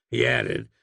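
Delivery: ordinary delivery, nothing marked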